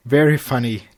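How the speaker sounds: smirking. Acted. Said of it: "Twilight smirked".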